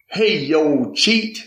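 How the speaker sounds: light southern dad's call, cheat jumping up high; imitating dad calling. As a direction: call out playfully like his father did. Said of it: "growing up, he'd say".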